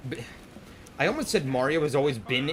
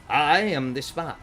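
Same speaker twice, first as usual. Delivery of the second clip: slow, bad secret-agent impression; Spy; slower than usual. Streamer ending rapid-fire impressions, slow Spy voice. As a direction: draw it out in a put-on voice. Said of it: "Those are my awful T F two impressions".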